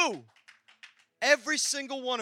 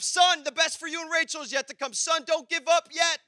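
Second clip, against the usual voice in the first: voice of God; 5 semitones higher, 4 dB louder than usual. Retold or imitated. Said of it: "hear a voice in my heart and in my spirit say".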